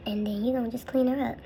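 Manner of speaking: whispered, gentle instruction; whispered tip. Real, not acted. Guiding viewers to clean the brow, whispered.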